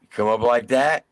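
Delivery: usual speaking voice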